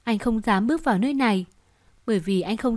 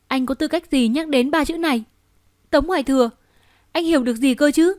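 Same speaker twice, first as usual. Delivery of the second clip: bitter reproach; 4 semitones higher than usual. Acted. Wife confronts husband bitterly.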